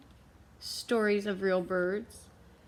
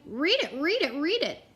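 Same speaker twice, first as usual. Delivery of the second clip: higher frog croak, read it read it; 7 semitones higher, 5 dB louder than usual. Acted. The frog jumps into the library, mock frog croak. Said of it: "and went".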